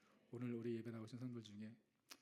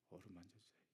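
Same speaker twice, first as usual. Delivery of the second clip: tender hush; 3 semitones lower, 10 dB quieter than usual. Acted. Tender plea for comfort.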